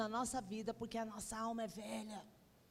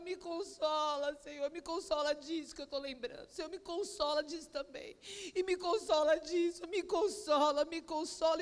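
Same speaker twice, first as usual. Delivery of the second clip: retold tearful plea; 3 semitones higher, 3 dB louder than usual. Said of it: "eu chorei das sete e meia até meio-dia".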